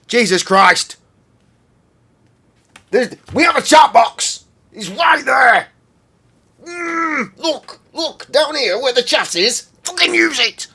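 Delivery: screaming high and loud at chat; furious shout. Real, not acted. Streamer yelling at chat to use the chat box. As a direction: bellow it in exasperation.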